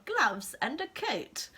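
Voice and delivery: imitating pupils echoing the teacher's accent; slow sing-song mock of kids repeating "Gloves and a coat"; kids parroting. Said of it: "And they'll go".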